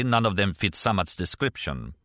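lightly voiced Russian émigré character; a hint of a Russian accent, measured delivery; Kastner, accented former KGB man.

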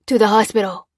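loud, grim growl; growled reply. Acted. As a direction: growl it with resolve. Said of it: "growled Lopez".

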